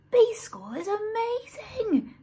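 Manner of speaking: unvoiced awed whisper; whispered thought. A narrator's reading. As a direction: breathe it as a secret thought. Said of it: "thought Norman".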